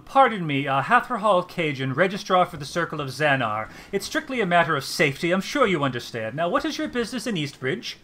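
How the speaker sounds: the fussy bureaucrat being polite but firm; elf registrar. Acted. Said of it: "the elf looks at you and says".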